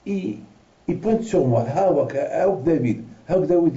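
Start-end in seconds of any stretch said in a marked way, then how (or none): 1.7-3.8 slow, high call of the name; drawn-out call to the rabbi's son. Retold or imitated. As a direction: hail him from a distance. The old couple calling him.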